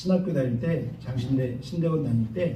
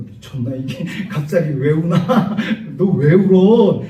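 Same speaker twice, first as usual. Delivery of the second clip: laughing friend; slower than usual. Retold or imitated. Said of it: "옆에 있는 친구가".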